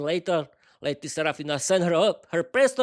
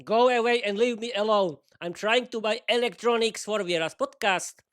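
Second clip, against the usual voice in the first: sour reply; 4 semitones higher than usual. Acted. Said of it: "looked at him sourly".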